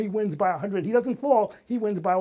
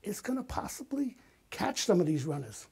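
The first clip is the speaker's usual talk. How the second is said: whispered thought; 4 dB quieter than usual. Retold or imitated. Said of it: "I'm saying to myself".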